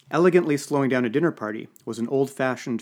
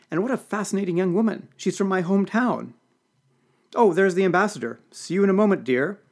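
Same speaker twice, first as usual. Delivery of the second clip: much higher, louder delighted chatter; tipsy old senator; 8 semitones higher, 5 dB louder than usual. A narrator's reading. The senator gushes about Violet to McGregor, high and tipsy. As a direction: gush like a merry tipsy grande dame. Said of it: "tipsy senator chatters".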